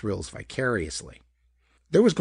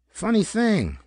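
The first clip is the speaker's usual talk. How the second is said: casual; 10 semitones higher, 5 dB louder, slower than usual. A narrator's reading. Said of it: "mentioned casually".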